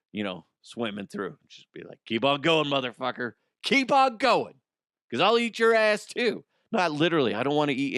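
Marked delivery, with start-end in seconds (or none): 2.1-6.4 tough-guy taunt rising high and loud; playful shouted threat, climbing in pitch; mock threat. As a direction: warn them off with hammed-up menace. Acts out threatening the other crocodiles.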